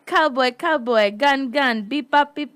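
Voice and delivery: slow, chanted stereotype of American talk; mock foreign take on American. Host guessing how other countries do American, mock accent. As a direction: imitate foreigners imitating Americans. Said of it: "how they do American".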